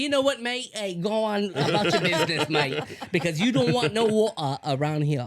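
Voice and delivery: joking put-on Australian accent; hammed-up Australian accent for a gag. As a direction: play a mock Australian tough guy, half laughing. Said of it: "thought he was from Australia or something".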